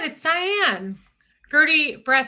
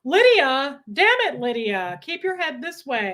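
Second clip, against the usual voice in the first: exasperated scolding; 3 semitones higher, 5 dB louder than usual. Real, not acted. Scolding the dog on camera.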